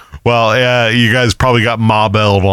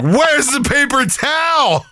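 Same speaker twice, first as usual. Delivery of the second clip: much higher, slow squeaky voice; high-pitched squeak; 13 semitones higher, 3 dB quieter, slower than usual. Retold or imitated. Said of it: "and I'm like".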